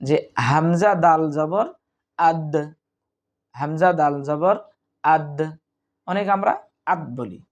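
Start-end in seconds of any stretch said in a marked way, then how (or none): 2.2-2.5 আদ with a short echoing release on the d; qalqalah bounce. Shown as a demonstration. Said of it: "এভাবে পড়তে হবে". 5.0-5.4 আদ with a short echoing release on the d; qalqalah bounce. Shown as a demonstration. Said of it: "এভাবে পড়তে হবে". 6.9-7.0 আদ cut off on an unreleased final consonant; stopped dead, no bounce. Shown as a demonstration. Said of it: "এইভাবে থেমে যাই".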